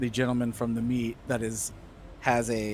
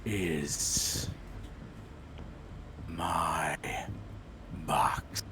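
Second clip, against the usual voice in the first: booming giant voice; 6 semitones lower, 5 dB quieter, much slower than usual. Acted. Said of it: "you hear a booming voice".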